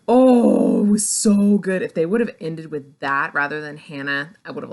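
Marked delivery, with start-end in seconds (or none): 0.1-1.8 delighted gush. Retold or imitated. Delighted reaction to ending.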